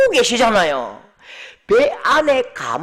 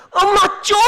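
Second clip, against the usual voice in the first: put-on embarrassed teen; 9 semitones higher, 5 dB louder than usual. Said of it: "별로 안 반가워요".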